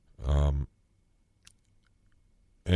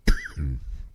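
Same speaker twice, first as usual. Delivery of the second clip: coughing; 3 semitones lower than usual. Real, not acted. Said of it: "breathing in feather dust".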